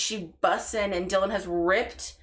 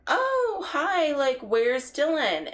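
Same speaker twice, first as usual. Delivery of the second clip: high, sing-out cheery greeting; imitating mom's higher voice; 7 semitones higher, much slower than usual. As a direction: chirp it like an unsuspecting mother. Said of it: "my mom came out and was like".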